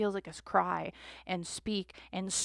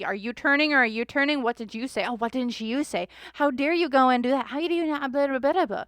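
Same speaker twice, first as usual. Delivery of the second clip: higher, louder indignant accusations; heated sibling blame, voice raised; accusing quarrel; 4 semitones higher, 5 dB louder than usual. Retold or imitated. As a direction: fire back as if betrayed. Channelled sisters accusing each other.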